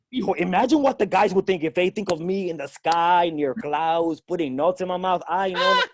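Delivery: put-on old-school Spanish dad. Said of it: "every old school Spanish dad".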